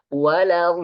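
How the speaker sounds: walau with a flowing tongue sound; flowing consonant. Shown as a demonstration. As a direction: let the sound flow on walau. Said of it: "ada suara mengalir".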